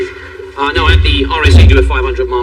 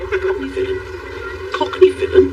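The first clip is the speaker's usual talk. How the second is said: high, hushed disbelief; offended echo; 13 semitones higher, 8 dB quieter, slower than usual. Acted. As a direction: repeat the insult softly, high and wounded. Echoes insult in offended disbelief.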